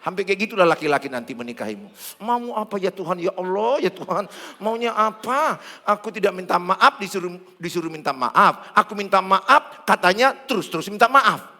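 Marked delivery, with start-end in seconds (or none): 2.2-11.5 mock exasperated plea to heaven, louder toward the end; a hammed-up husband at his wits' end. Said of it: "agak ke gini". (suami yang pura-pura putus asa dan jengkel)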